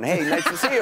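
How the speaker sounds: a light mock of a chirpy host hello; imitating Andy's greeting. Anderson mimicking Andy greeting flight passengers, lightly hammed. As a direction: wave to the plane like a celebrity. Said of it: "He'll be like".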